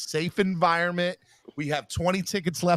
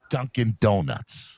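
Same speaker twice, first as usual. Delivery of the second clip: "Dunkin' Donuts" said slowly, every syllable drawn out; slow demo; 3 semitones lower, much slower than usual. Shown as a demonstration. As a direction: drag out "Dunkin' Donuts" for a learner. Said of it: "say, say".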